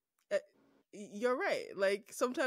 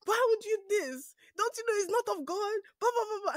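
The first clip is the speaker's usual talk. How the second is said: preachy mom; 13 semitones higher, 8 dB louder than usual. Retold or imitated. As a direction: go off like a mother lecturing her child. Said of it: "and my mom was like".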